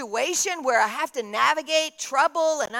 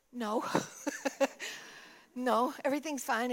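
tearful denial; 8 dB quieter than usual. Retold or imitated. Tearful woman denies she is crying.

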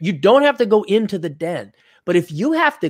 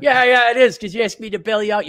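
high-pitched, acted exasperation; exasperated retort; 7 semitones higher than usual. Bailed-out graduate gets told off by the one paying, exasperated. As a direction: throw the retort back, mock-angry.

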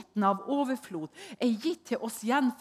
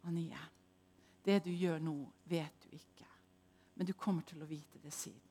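low, soft, hushed voice of God; God's voice; 5 semitones lower, 10 dB quieter than usual. Retold or imitated. God answering Anie gently, low and soft. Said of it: "sa bare Gud til meg".

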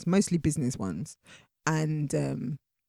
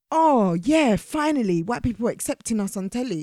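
mock celebrating; 4 semitones higher than usual. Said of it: "I take issue with this fact that".

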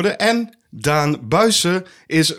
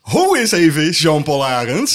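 hyped intro; 4 dB louder than usual. Acted. Mock show intro names.

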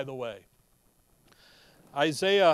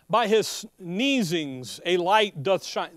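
solemn scripture reading; slower than usual. Acted. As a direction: proclaim the verses with weight. Reads King James scripture aloud.

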